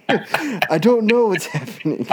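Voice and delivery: very high, slow, loud, helpless wail; mock stoned panic. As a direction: ham up his own stoned confusion. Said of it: "And I was like".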